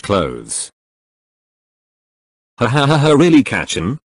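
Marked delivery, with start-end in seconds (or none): 2.6-4.0 amused laugh. Acted. Deku laughs at disguise.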